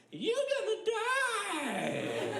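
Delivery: very high, slow drawn-out wail; ghoul scream. Retold or imitated. Hidden ghoul behind the crates, long high spooky wail. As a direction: stretch a spooky high howl. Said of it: "this voice that just said".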